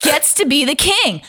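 hammed-up outburst ending in a shriek; mock indignant rant. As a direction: list the wrongs then explode. Damon voiced, building to outburst.

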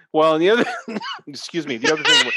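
choking and laughing through words; sputtering after a swallow gone wrong; choking on a drink. Real, not acted. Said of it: "I'm choking".

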